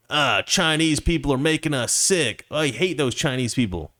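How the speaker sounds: a lightly put-on rural hick accent, half-hearted; a hint of a hillbilly accent, barely voiced. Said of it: "like, a hick accent".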